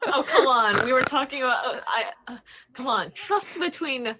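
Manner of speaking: high, laughing "come on"; laughing protest. Acted.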